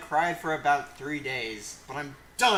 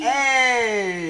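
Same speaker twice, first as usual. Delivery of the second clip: high loud shout of A; 9 semitones higher, 10 dB louder than usual. Acted. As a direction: bellow A. Echoing the yell.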